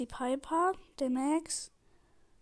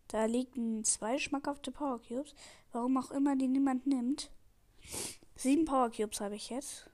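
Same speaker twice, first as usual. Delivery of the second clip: runny nose; 3 dB quieter than usual. Real, not acted. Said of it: "meine Nase läuft grad".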